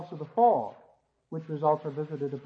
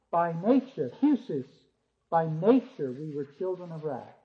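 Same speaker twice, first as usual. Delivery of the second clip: weight on nature each time; stress on nature. Shown as a demonstration. Teacher drives home by nature to students. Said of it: "Emphasis in this scripture".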